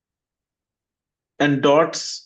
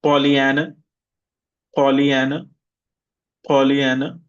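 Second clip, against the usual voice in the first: Pollyanna with stress on -an-, rising; teacher drills noun form. Shown as a demonstration. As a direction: model Pollyanna clearly. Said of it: "repeat after me".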